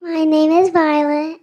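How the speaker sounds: said out loud and clearly into the mic; loud, confident introduction; loud and proud. Real, not acted. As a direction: announce it boldly and loudly.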